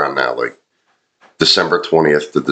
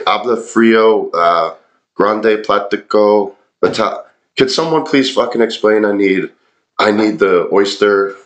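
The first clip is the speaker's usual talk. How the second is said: awful Spanish; 4 semitones higher than usual. Retold or imitated. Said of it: "in my awful Spanish".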